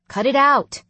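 loud, high, exasperated snap; fed-up brother raising his voice; annoyed command. A narrator's reading. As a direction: shut them down sharply. Brother snaps at teasing siblings.

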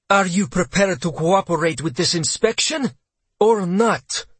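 high, sharp official challenge; whip-crack demand. A narrator's reading. Colonel demands cooperation from captain, sharp and high. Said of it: "Her voice cracked like a whip".

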